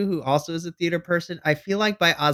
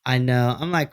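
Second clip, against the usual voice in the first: ordinary talk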